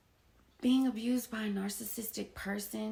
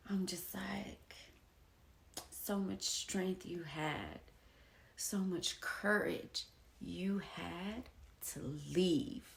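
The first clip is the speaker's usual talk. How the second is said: softer, slow and tender; 6 dB quieter, slower than usual. Real, not acted. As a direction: praise yourself quietly. Soft proud self-talk.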